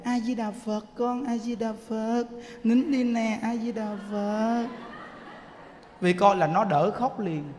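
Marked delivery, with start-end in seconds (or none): 0.0-4.7 put-on soft, slow, gentle hush to a crying child; calm the baby with a gentle chant; gentle soothing of a crying grandchild. Shown as a demonstration. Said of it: "mình dỗ nó".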